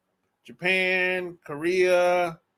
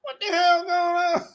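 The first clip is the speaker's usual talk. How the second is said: mock shock; 9 semitones higher than usual. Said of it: "I'm like".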